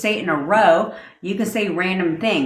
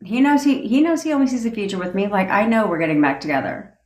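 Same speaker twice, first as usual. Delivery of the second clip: assured inner talk; 3 semitones higher, faster than usual. Shown as a demonstration. Coach demoing certain self-talk about getting back together. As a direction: say it like a done deal. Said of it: "You see what I'm saying?".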